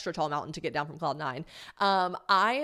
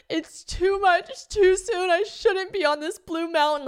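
high, slow wail, louder; crying wail; 11 semitones higher, 5 dB louder, slower than usual. Retold or imitated. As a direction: sob it out in despair. Retold crying on blue slope.

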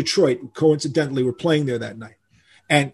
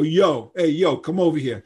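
demonstrated street call; calling someone over; 2 semitones higher than usual. Shown as a demonstration. Shows the audience how Americans call you, casual hailing. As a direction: casually hail someone, as a demo. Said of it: "when they wanna call you".

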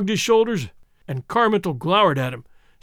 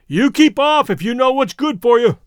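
higher, louder threatening call; loud warning call; 5 semitones higher, 6 dB louder than usual. A narrator's reading. Big Alec warning off the patrol boat, loud threat. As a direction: bellow a warning across the water. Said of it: "he called out suddenly".

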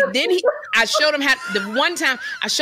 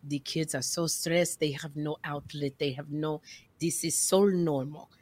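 soothing tutor; 8 semitones lower, 8 dB quieter than usual. Retold or imitated. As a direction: talk down gently like a calm counselor. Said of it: "he says".

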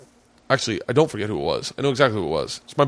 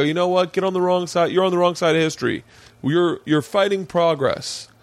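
higher-pitched, indignant lecture; mock righteous scolding; 6 semitones higher than usual. Defending gay friend to heckler, mock righteous scolding. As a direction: take a stand, playing the crusader.

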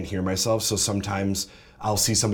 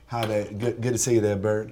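put-on Georgia Southern accent. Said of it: "let's do Georgia Southern".

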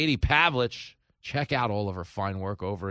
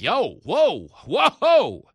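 higher and loud, alarmed; startled tourist; 8 semitones higher, 9 dB louder, much slower than usual. Retold or imitated. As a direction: back off in a panic. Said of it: "the tourist is like".

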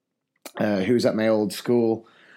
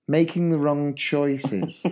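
deliberate euphemism; 3 semitones higher, slower than usual. Real, not acted. Euphemism for naughty, spelt out.

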